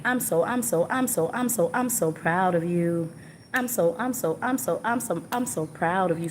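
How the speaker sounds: channeled proud message. Retold or imitated. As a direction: repeat it in a lilting loop, then land it. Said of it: "I'm hearing".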